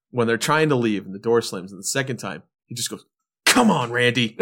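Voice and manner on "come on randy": exasperated Come on. Retold or imitated. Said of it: "the way he says it".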